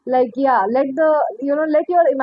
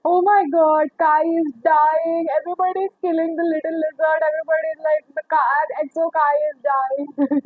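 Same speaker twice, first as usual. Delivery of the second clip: mock crying; 2 semitones higher than usual. Retelling crying over a dying singer, mock wailing. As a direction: act out a tearful lament, stretching words. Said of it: "I was crying like".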